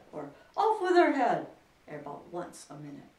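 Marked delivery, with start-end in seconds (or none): 0.6-1.5 high, very loud royal shriek; enraged queen's yell; furious shouting. A narrator's reading. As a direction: shout the death sentence in a fury. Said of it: "went stamping about and shouting".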